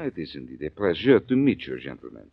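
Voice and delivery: put-on mild French accent, courtly; bow to the thugs with French manners. Frenchman greeting the fence's partners, lightly French accented. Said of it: "Gonna try out your French accent?".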